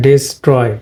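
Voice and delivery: ডিস্ট্রয় as di-STROY, stress on the second syllable; correct pronunciation. Shown as a demonstration. Teacher concluding the rule for learners, correct pronunciation. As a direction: open ডিস্ট্রয় with a short "di", then fall on "stroy". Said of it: "second সিলেবলে stress পড়েছে".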